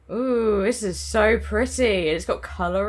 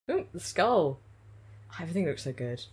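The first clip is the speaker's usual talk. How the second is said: normal talking voice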